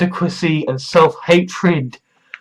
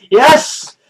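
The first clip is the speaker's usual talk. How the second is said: megalomaniac rant; 6 semitones higher than usual. Pretend. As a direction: proclaim like a grandiose cult lord. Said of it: "the part where I then say".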